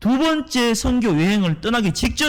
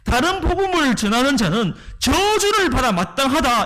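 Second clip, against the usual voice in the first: raised, forceful condemnation; Paul's forceful warning, somewhat higher; forceful declaration; 4 semitones higher than usual. Retold or imitated. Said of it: "이렇게 강하게 얘기를 하고 있는 거예요".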